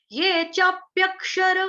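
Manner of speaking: slow, careful ये चाप्यक with half क; chanting teacher demo; half ka, chapyak. Shown as a demonstration. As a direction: sound out चाप्यक slowly, half क joined to य. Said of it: "क्या बोलना है हमको".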